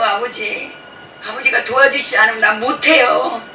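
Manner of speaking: pleading that builds to a loud cry; Moses clinging. Retold or imitated. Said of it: "붙들잖아요".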